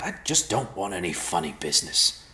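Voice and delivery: gravelly, put-out grumble; offended gravelly creature; huffy gravelly voice. Acted. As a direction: huff it in a rough stranger's voice. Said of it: "the voice huffed".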